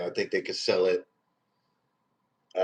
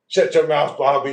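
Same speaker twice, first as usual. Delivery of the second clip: mock angry shout; 6 semitones higher, 5 dB louder than usual. Roasting a viewer named Bobby.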